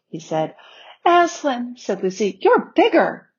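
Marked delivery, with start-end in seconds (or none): 1.0-1.7 high, wondering call of the name; childlike amazement. A narrator's reading. Lucy gazing at the lion's face, amazed. 2.4-3.3 high, marvelling exclamation; childlike amazement. A narrator's reading. Lucy seeing the lion has grown, amazed.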